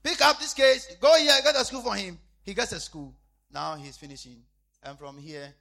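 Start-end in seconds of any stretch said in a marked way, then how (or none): 0.0-2.2 retold command. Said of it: "I said".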